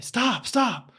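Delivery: lightly voiced kid whining; whiny kid. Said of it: "Jonathan saying".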